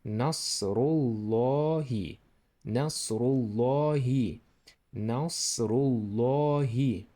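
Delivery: Nasrullahi said slowly with a doubled lam. Shown as a demonstration. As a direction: hold the ll of Nasrullahi. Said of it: "This is lam here, doubling".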